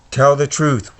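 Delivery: menacing demand, lightly put on; Voldemort voice. Voldemort demanding the truth from Harry, menacing. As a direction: press the boy like a dark lord.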